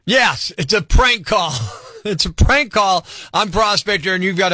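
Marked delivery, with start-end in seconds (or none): 0.0-3.0 prank reveal laughing. Real, not acted.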